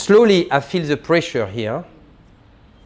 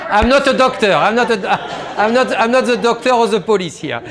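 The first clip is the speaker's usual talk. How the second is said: higher-pitched, laughing as they speak; amused protest; 5 semitones higher than usual. Real, not acted. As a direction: joke it through a laugh, pitch up. Joking with the guests after laughing.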